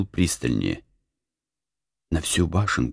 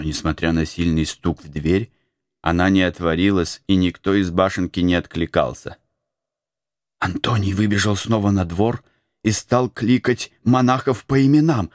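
plain reading voice

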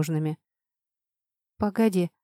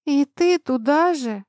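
slow, higher mock-weary groan; moaning; 7 semitones higher, 3 dB louder, slower than usual. A narrator's reading. Oxy to Alex, tired of teasing, mild moan. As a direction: drag it out, exasperated. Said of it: "простонала я".

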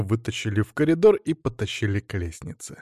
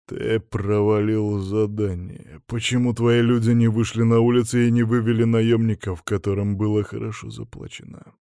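disembodied voice. Acted. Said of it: "Раздался голос в голове".

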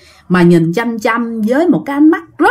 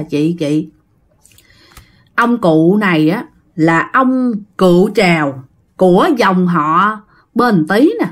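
medium's solemn voice; 3 semitones lower, slower than usual. Retold or imitated. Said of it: "nói rằng á là".

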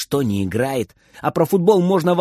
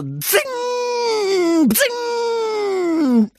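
glass shattering sound. Acted. Window glass breaking.

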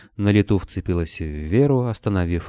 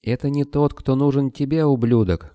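high, shouted insult; angry retort; 7 semitones higher than usual. A narrator's reading. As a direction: spit it back at him, pitch up. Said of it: "крикнула в ответ охотница".

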